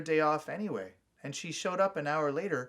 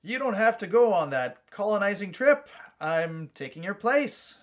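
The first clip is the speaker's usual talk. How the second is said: Donnie, firm; 6 semitones higher, 7 dB louder than usual. A narrator's reading. Brother announces he takes place.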